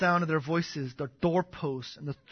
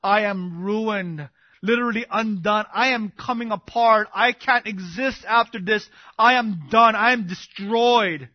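Isaiah; 3 semitones higher, 10 dB louder than usual. Acted. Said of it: "he cried out".

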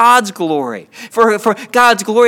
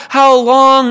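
higher, louder pleading call; crying out; 4 semitones higher, 5 dB louder than usual. Acted. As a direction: raise the voice in a plea to God. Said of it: "We cry out".

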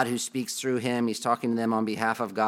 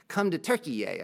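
higher-pitched mock American ad pitch; total American accent; 5 semitones higher than usual. Preacher mimics the airline video's invitation, total American accent. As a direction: imitate an American pitchman, voice lifted. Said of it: "this guy with this total American accent".

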